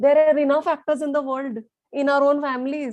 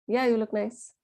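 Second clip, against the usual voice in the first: flat, grudging compliment; 4 dB quieter than usual. Acted. Jealous person complimenting someone well dressed, flat and grudging. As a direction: say it flatly, holding the envy in. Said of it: "It's so flat".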